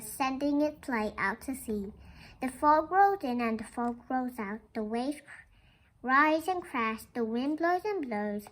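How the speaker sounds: gentle, measured read-aloud voice; storybook reading. Acted. Teacher reading a picture book to the class, gentle storytelling.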